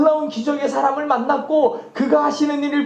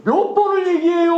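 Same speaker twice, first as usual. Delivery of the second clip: Chungcheong dialect; 3 semitones higher than usual. Retold or imitated. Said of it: "충청도 말로 하면은".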